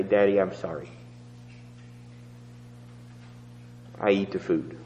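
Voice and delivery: soft, low little voice; a small, meek voice from the bedroom; tiny voice. Retold or imitated. Son apologising quietly to Daddy, tiny voice. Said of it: "a tiny voice".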